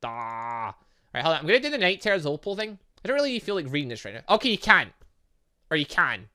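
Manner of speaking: usual speaking voice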